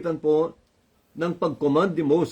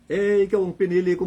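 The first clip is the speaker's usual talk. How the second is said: laughing; 4 semitones higher than usual. Acted. God exasperated, preacher laughing.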